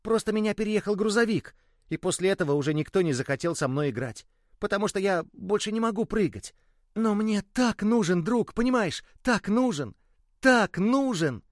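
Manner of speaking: high voice, slowing on the last so much; long for a friend, drawing out the end; lonely pleading ball. Acted. The ball tells the boy how badly it needs a friend, high and longing.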